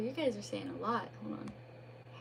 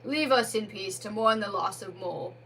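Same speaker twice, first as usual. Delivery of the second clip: firm, a touch louder call; crying out; 4 dB louder than usual. Acted. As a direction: Badger mourning Mole, calling to the spirit. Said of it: "cried Badger".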